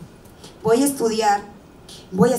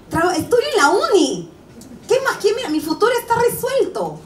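climbing higher as the pleading grows desperate; pleading rejected suitor; 4 semitones higher than usual. Retold or imitated. Spurned boy begging a girl who refuses him, rising whiny plea. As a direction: beg the girl, rising higher with each question.

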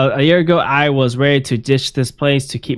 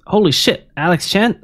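higher, surprised and thrilled; shocked delight; 7 semitones higher than usual. Retold or imitated. Old friend texting in disbelief, higher and surprised. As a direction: read it like you can't believe who it is.

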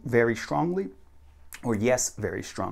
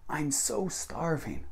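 slow, drawn-out "so", falling at the end; learner's mistake example; 4 semitones higher, 5 dB quieter, much slower than usual. Retold or imitated. Teacher quotes Korean learners' mistake, slow stretched "so". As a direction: stretch "so" higher, keep it soft. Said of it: "Korean people tend to make a mistake".

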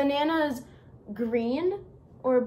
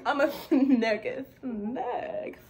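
put-on Southern accent; slower than usual. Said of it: "talk in your Southern accent".

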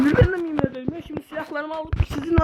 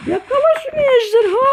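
villain voice; 7 semitones higher, 6 dB louder than usual. Acted. Villain voice commanding dragon.

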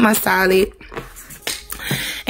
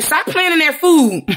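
a much higher, slower mock mom scold through a laugh; 10 semitones higher than usual. Vlogger imitating her mom scolding her at dinner, laughing mock scold. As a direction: lightly imitate your mom telling you off, laughing. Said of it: "your mom be like".

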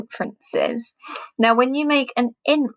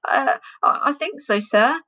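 nervous, trembling reply; a touch of stage fright, unsure; shaky voice; 4 semitones higher than usual. Acted. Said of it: "said Tim in a shaky voice".

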